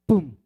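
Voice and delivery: short punchy "pum" sound effect; sudden verbal thump; imitated pop. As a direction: drop in a quick one-word boom. Imitates an instant result.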